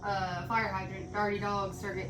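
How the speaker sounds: breathless after a workout; panting out the words; out of breath. Real, not acted. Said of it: "I'm literally out of breath".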